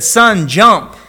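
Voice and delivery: loud, high call up to the window; desperate father calling his son; father's shout. Acted.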